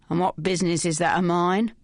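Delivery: a rough, mildly hostile man's snarl. Acted. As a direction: bite the words off suspiciously. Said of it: "snarled the voice".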